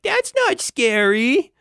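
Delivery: put-on high, drawn-out child voice; mock a dismissive little kid, slowly; scoffing kid. Kid at the dig unimpressed by the velociraptor, high mocking voice. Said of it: "the kid is like".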